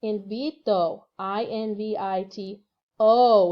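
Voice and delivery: invito said slowly, then spelled letter by letter; careful teacher spelling of invito. Shown as a demonstration. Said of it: "hopefully you said".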